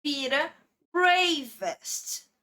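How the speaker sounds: "bravest" stretched out very slowly; slow English example. Shown as a demonstration. Teacher slowly models "bravest" for students. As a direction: draw out each sound of "bravest". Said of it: "Então, por exemplo".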